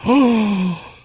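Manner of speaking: high, loud, shrill alarm; mock hysterical lady. Storyteller mocking the lady accusing him of a threat, high and loud. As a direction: shriek like she's been threatened.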